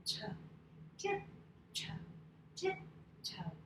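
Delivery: whispered tiptoe. Shown as a demonstration. Teacher to kids tiptoeing, whispered rising. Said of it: "we say tiptoe".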